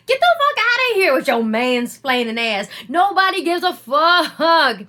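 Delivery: contemptuous brush-off of mansplainers; dismissive brush-off. Real, not acted. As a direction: wave them off with contempt.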